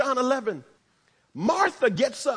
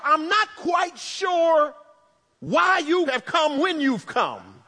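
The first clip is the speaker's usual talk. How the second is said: Martha's hopeful heart; 3 semitones higher than usual. Retold or imitated. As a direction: stretch each word out like a grieving woman clinging to hope. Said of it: "something in her heart that tells her".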